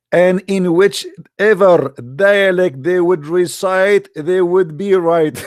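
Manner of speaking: slow, drawn-out mocking recital; slow sarcastic recital of a quote; mock solemn quote. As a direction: stretch it out slowly to ridicule it. Quoting the hadith with mockery.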